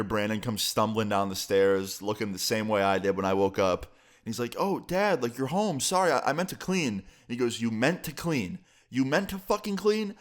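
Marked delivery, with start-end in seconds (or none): 4.6-6.9 high-pitched, caught-out son, imitated; mock sheepish stammer; sheepish apology. 7.6-8.6 slow, measured repeat of a weak excuse; disbelieving echo. Retold or imitated. Dad echoes son's excuse. 8.9-10.2 much higher-pitched, mock-angry question; incredulous outrage. Dad repeats it, escalating.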